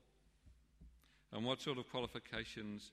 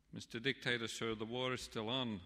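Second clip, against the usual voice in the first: proud announcement; 3 semitones higher, 5 dB louder than usual. Retold or imitated. Paddy proudly phoning the dictator.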